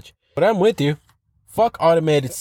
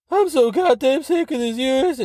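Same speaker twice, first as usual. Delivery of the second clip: much higher put-on angry voice; angry redditor voice; 10 semitones higher than usual. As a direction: ham up an outraged complainer. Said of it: "I'm not gonna do that voice".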